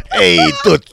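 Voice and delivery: very high, strained cartoon yell; mock sleazeball. Guy hitting on the waitress, hammed-up high sleazy call. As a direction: ham up the creep calling the waitress.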